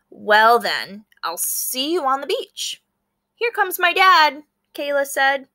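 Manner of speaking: lively read-aloud with small character voices; story narration. A narrator's reading. Teacher reading a picture book to her class, storytelling. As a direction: bring the classmates' lines to life.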